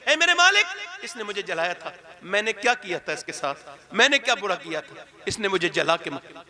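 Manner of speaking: grieving plea to God; pleading mother. Acted. Mother pleading her case before God, grieving. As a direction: lay the complaint before the Lord, hurt. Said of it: "उसकी माँ मुकदमा पेश करेगी".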